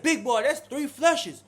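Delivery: mock exasperated warning to a cellmate; exasperated call-out. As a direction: lay it on him, drawn out. Scolding cellmate about flushes.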